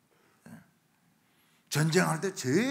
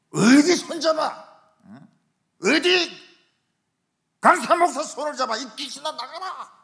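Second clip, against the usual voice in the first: exorcising shout; 10 semitones higher, 11 dB louder than usual. Retold or imitated. Visiting preacher to the demon in the woman, shouted rebuke. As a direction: reenact a shouted command to cast out a demon.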